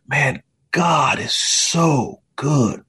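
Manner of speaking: very slow, drawn-out praise; heartfelt awe. Retold or imitated. Injured son to dad, slow heartfelt awe. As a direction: let each word hang in wonder.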